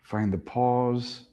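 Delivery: slow hushed echo of the instruction; slow, soft cue. Shown as a demonstration. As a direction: let each word settle slowly. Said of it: "just find those pauses".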